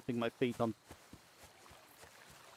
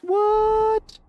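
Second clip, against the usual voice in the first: shocked what; 6 dB louder than usual. Real, not acted. Boots lose quality suddenly.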